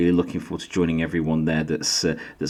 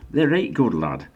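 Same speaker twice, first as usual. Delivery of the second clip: hammed-up Yorkshire, they're rate good lad, said higher with the rate stretched; broad Yorkshire; 3 semitones higher than usual. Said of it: "Don't do that. I've lost my accent".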